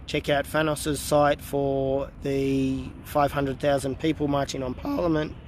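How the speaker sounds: hoarse, fading voice; losing voice. Real, not acted. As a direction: voice giving out, hoarse. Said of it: "I'm losing my voice again".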